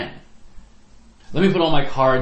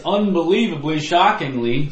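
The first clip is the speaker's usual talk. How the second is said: mock astonishment, pitched a bit higher; sarcastic; 5 semitones higher, 4 dB louder than usual. Real, not acted. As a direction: sarcastically overplay the shock, word by word. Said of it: "sarcastically I say".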